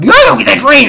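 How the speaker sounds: high, loud playful shout; urgent shout. Retold or imitated. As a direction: yell at him to get it fixed now. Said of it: "Cormier's like".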